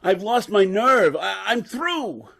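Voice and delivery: slow, beaten confession; broken despair. Acted. Professor haunted by his assistant's death, slow despair. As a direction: let the words drag out defeated.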